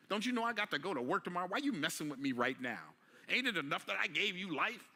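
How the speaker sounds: mock-complain to a wailing infant; tired parent scolding.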